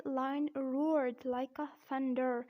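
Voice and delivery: slow American "roared" with a sounded R; American accent. Shown as a demonstration. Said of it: "and in American accent".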